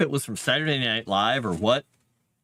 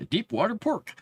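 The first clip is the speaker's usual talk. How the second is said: laughing through the words, higher; 10 semitones higher than usual. Real, not acted.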